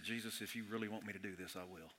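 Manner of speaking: put-on very soft and low, a shy boy's prayer; a twelve-year-old's shy whispered prayer; timid prayer. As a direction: pray it shyly, barely audible. Boyhood prayer at the altar.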